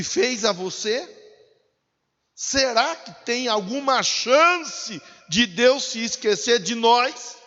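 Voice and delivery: impassioned sermon questioning; preaching. Real, not acted. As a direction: challenge the congregation, voice lifted. Preacher building rhetorical questions.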